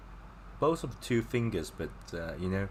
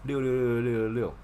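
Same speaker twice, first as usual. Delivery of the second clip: praising a pro; 5 semitones higher, 4 dB louder than usual. Pretend. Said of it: "when you say someone is very good at something".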